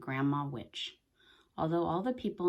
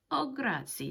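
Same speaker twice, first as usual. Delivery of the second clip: put-on high, eager thanks from a simple young man; Big Anthony grateful; 10 semitones higher than usual. A narrator's reading. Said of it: "said Big Anthony".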